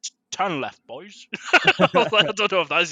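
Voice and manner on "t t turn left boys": louder, stammered Michael Caine Cockney impression; a hammed-up Cockney accent as Michael Caine. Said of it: "that's a terrible accent".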